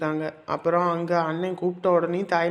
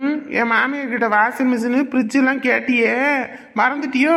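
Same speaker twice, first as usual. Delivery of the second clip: higher and louder, building as he accuses; heated accusation; 6 semitones higher, 4 dB louder than usual. Acted. Son confronting his mother over her own demands, rising anger.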